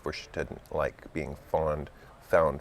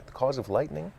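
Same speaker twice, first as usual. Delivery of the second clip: decided; 9 semitones higher than usual. A narrator's reading. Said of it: "Alice said very decidedly".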